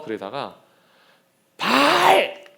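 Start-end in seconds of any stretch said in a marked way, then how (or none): 1.6-2.4 high, loud cry to a god; calling out to Baal. Acted. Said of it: "실제로 제가 지금 오버하는 게 아니라".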